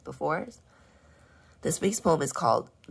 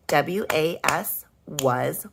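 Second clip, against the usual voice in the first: slow spelling; 5 dB louder, much slower than usual. Shown as a demonstration. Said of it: "spelling aloud letter by letter".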